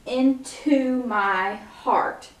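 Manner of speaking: slow counted lyric. Shown as a demonstration.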